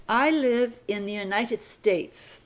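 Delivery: slow, deliberate read; slow dictation. Shown as a demonstration. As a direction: read it slowly for the class. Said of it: "Sentence number fifty-four".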